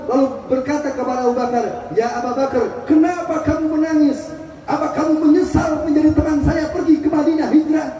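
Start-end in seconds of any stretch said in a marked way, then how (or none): 1.9-7.9 a slightly raised, concerned questioning voice; gentle Prophet. Acted. The Prophet wakes and asks Abu Bakar, lightly voiced and concerned.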